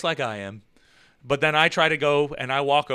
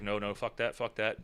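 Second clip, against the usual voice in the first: hushed panic; 7 semitones lower, 12 dB quieter than usual. Retold or imitated. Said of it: "I was like".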